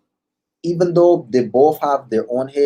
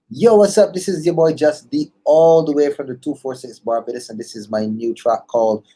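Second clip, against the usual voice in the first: radio intro. Acted. Artist introducing his new track on air, hype intro. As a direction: hype the song like a DJ drop. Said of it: "give you a few seconds to introduce it".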